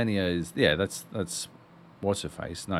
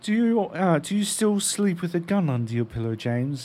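mock reporter; 6 semitones higher than usual. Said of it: "mocking reporter question to Bond".

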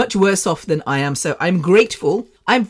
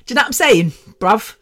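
street slang; 4 semitones higher, faster than usual. Pretend. Slangy repeat of own line.

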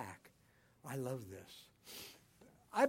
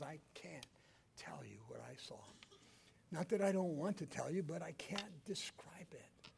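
awed whisper; 8 dB quieter than usual. Acted. Paul voiced after heaven.

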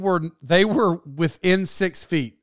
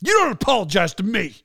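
raised-pitch mock scolding; imitated angry rebuke; 4 semitones higher than usual. Star snapping at apologizing crew, mock angry. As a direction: act out a star rejecting an apology. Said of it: "he's yelling at 'em".

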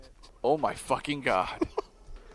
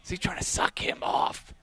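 same question breathed out with no voice; a commentator whispering a shocked aside to his co-host; whispered; 3 semitones higher, 5 dB quieter than usual. Real, not acted. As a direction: repeat it as a scandalised aside.

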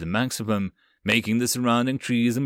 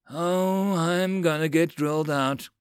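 yelp; 6 semitones higher, slower than usual. A narrator's reading. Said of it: "Slow yelped".

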